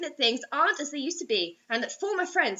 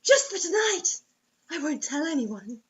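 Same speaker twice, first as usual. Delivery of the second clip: mock begging girl; 3 semitones higher than usual. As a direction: coax him, a bit overacted. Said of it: "she begged".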